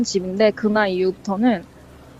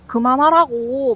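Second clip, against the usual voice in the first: drawn-out, higher-pitched exasperated demand; retold anger; 4 semitones higher, slower than usual. Sister repeating her order to stop, mock angry. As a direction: imitate a cross sister, dragging the words. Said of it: "막 화를 냈대요".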